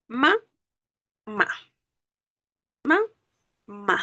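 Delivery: "Ma, ma" as separate beats, first rising, second falling; split into syllables. Shown as a demonstration. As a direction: test each "ma" on its own with a pause between. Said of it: "Identifico cuál de estas dos sílabas suena más".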